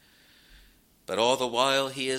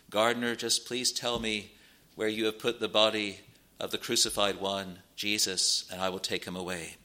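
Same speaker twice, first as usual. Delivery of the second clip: calm, gentle; 3 dB quieter than usual. Retold or imitated. Mary asks the gardener for the body, calm and gentle. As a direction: ask calmly and gently, without threat. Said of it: "calmly, gently".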